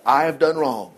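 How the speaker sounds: low, understated confession; a touch of penitence; confessing. Acted. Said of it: "Then Saul confessed".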